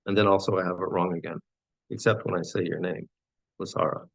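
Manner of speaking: measured recital, phrase by phrase; poem reading. Acted. Poet addresses a loved one in verse, measured recital. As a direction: recite it with each self-correction as its own phrase.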